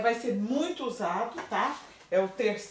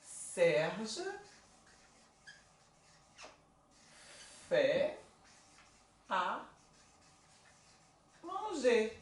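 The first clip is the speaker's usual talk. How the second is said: Serge, fait, à, manger with long pauses between; teacher dictating slowly; word by word; 6 dB quieter, much slower than usual. Shown as a demonstration. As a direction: space every word apart. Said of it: "Ah lá".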